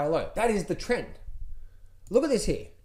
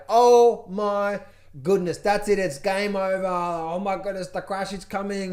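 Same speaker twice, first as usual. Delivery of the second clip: louder hammed-up dread; mock panic; 4 dB louder than usual. Mocking traders who think the crash is coming, louder mock dread. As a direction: wail that it's game over.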